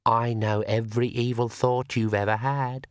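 shadow voice. Acted. Shadow voice taunts.

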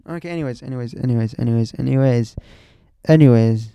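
crank up the volume with each anyways; building anyways. Pretend. Mock self-interrupting, getting louder.

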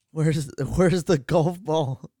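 laughing. Real, not acted. Laughing at the golf ball joke.

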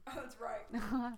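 slow, chewing as she talks; mouth full. Real, not acted. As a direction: speak around the banana. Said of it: "Please stop chewing like that".

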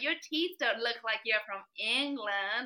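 drawn-out playful compliment; friendly man joking about English teeth; cheeky compliment. Retold or imitated. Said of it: "And he was like".

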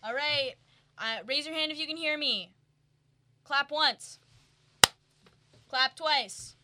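high, loud counselor addressing campers; peppy orientation leader. Pretend. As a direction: call the campers to attention, bright and loud. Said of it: "all the campers".

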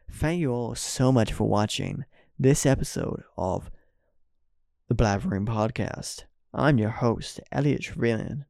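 mock American podcast host sign-off; put-on American accent. Host signs off to podcast listeners, put-on American accent. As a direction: thank the audience in an imitated American accent. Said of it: "in an American accent".

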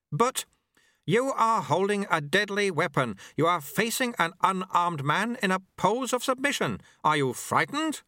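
put-on a wry old sweeper teaching his apprentice; old monk Lu Tse. A narrator's reading. Old master speaks to the dojo monks, wry.

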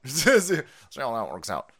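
drawn out through a laugh, mocking; slow laughing mock. Repeating his jab to viewers, laughing slowly.

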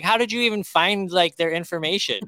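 high, loud incredulous question; retold flabbergasted reaction; amazed disbelief. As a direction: ask it in astonishment, voice shooting up. Retold amazement at quick booking.

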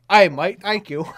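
loud, high Australian "Aye, mate" showing how it should be done; hammed-up Australian accent. Shown as a demonstration. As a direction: belt out a hammed-up Aussie thank you, high and loud. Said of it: "but you have to go".

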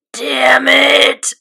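lightly imitated anime outburst; a touch of exasperated cartoon cursing; Connie. Host quoting a character's curse, mild imitation. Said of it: "And Connie went".

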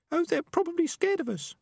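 very high, small female rat voice; Peaches, young female rat. A narrator's reading. Peaches explains the missing rats, very high-pitched. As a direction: offer it in a tiny high-pitched voice.

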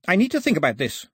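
high, quick, curt reply; snapping. A narrator's reading. Mister Black to the captain pressing him, snapping. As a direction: cut the captain off with mild irritation. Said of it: "snapped Mister Black".

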